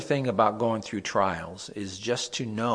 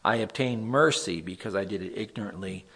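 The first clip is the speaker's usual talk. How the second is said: scripture reading. Acted. Pastor reads Psalm fifty-seven to the group, solemn reading. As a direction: read the verse out like a prayer.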